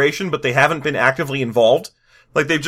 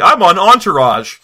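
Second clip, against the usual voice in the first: louder, slower mock bro boast; dwarf bro brag; 3 semitones higher, 6 dB louder than usual. Mocking the greased-hair dwarf bros, loud slow boast. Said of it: "Everything about them screams".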